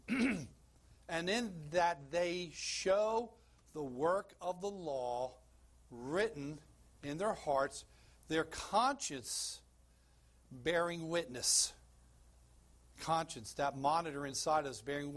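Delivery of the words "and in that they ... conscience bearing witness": slow, weighty reading of Romans; scripture reading. Acted. Preacher reads Romans to church, slow and solemn. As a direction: lay each phrase down slowly.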